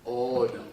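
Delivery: "Ono" said clearly as two syllables, oh-no; Hawaiian word demo. Shown as a demonstration. Teacher modelling the Hawaiian word for the audience, clear and deliberate. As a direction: model "Ono" for the class to repeat. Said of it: "let me repeat after me".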